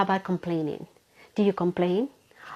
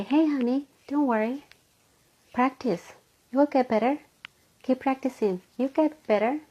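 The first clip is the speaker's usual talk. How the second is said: comforting teacher; 5 semitones higher than usual. Retold or imitated.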